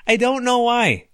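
high squealing laugh, very slow. Real, not acted. Host cracking up at his own insult. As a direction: laugh it out helplessly.

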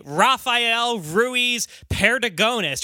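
Spanish name in flat American gringo sounds; slow, Americanized gringo pronunciation of the name; gringo accent. Shown as a demonstration. Host showing how he doesn't want to say it, gringo accent. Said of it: "don't wanna sound like a gringo".

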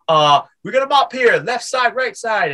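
high-pitched novice demonstrator; clumsy sales pitch. Retold or imitated. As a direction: act out an inexperienced mop seller's demo. Acting his clumsy mop sales pitch.

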